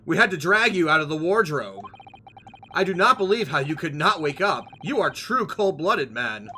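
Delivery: lightly voiced Russian sailor; bad Russian accent. Sailor accuses the man from the wardrobe, mild Russian accent. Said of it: "Let's try this one".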